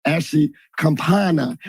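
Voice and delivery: slow, hammed-up Italian accent on "Campana", drawn out; bad Italian accent. Host naming his guest in a mock Italian accent. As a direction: roll "Ashley Campana" in a jokey fake Italian accent. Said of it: "That, that was a really bad Italian accent".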